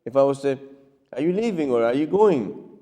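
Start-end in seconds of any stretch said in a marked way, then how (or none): 1.1-2.7 neutral, polite inquiry; easy, non-accusing question; gentler tone. Shown as a demonstration. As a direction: ask it without any edge. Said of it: "It's a different tone of voice".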